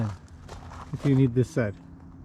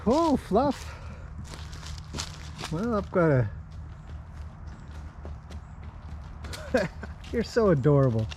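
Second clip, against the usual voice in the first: much higher cooing greeting to a horse; pet talk; 5 semitones higher, 5 dB quieter than usual. Real, not acted. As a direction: squeal the name up high.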